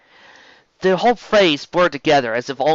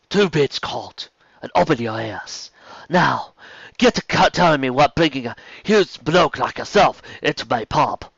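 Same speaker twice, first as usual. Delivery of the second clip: put-on female Cockney accent. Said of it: "a female Cockney accent".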